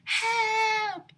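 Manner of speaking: high, loud cry for help; panicked yell; shouting. A narrator's reading. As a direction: call out in panic. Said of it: "shouted Ryan".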